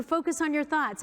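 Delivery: mocking the helpful advice. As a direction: parrot the annoying advice.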